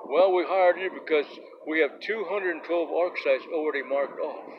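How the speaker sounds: retold smugness, starting high and loud; mock smug official, emphatic opening; smug grin. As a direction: say it through a self-satisfied grin. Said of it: "shit-eating grin".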